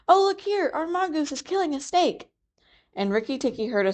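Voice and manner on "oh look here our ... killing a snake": put-on a small boy yelling to the house; excited shout. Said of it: "Teddy shouted to the house".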